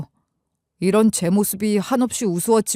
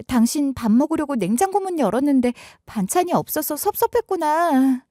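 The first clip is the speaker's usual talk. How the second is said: higher wife's voice, rambling and flustered, slowing at the end; 6 semitones higher than usual. Retold or imitated. Wife fumbling an excuse to suspicious husband, flustered. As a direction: babble a nervous excuse, then turn coaxing. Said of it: "횡설수설하면서 답을 하더군요".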